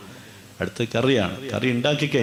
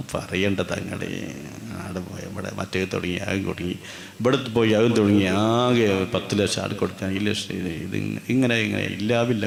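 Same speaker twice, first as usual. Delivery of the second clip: complaining; 3 semitones lower, 4 dB quieter than usual. Retold or imitated. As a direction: moan about your troubles softly. Friend grumbles about troubles.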